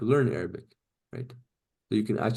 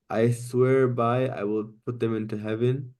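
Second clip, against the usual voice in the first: slow demo reading. Shown as a demonstration. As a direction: start "I swear by" slow and deliberate. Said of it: "look at the meaning".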